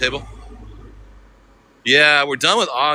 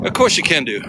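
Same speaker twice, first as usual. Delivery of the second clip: imitated Manchester accent; 6 semitones higher than usual.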